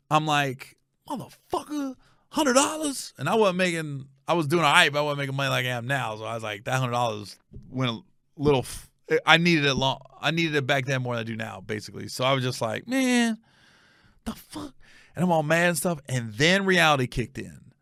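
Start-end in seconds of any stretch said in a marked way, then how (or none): 1.1-3.1 high, squeaky indignation; retold pissed-off reaction. Man pissed at paying her, high-pitched indignation. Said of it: "I'm pissed". 12.9-14.7 high-pitched, exasperated grumble; retold annoyance. Man mad over lost money, high exasperated grumble.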